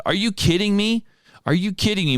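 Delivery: high, incredulous "are you kidding me"; can't believe what he just read; outraged disbelief. Real, not acted. Reading the firm's statement, outraged.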